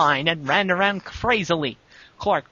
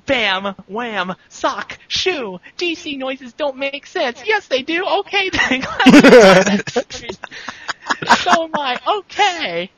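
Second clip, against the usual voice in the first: silly high cartoon voice; 8 semitones higher, 6 dB louder, slower than usual. Clark's rampage thoughts voiced.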